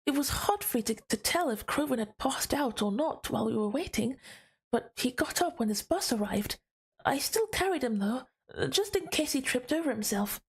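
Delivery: reading a story aloud, lively lilt; story narration. A narrator's reading. Streamer reads the night out story to viewers, narration.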